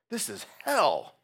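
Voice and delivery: loud, high, drawn-out cry of agony; cri d'angoisse. Acted. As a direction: cry it out slowly as if deeply suffering. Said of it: "he felt it deeply".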